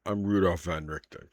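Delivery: put-on earnest, probing older man; steady, serious inquiry; lightly voiced old hunter. GM plays Van Richten confessing.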